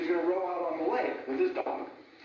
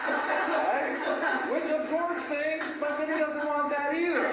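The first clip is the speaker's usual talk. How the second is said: talking through real laughter, a little higher; laughing; 7 semitones higher, slower than usual. Real, not acted. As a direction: laugh as you admit the common slip. Laughing at sofa cushion joke.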